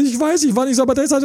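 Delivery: high-pitched mocking whine; whiny excuses. Coach mimics client after a breakup, high whiny excuses. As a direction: imitate a flustered client in a high voice.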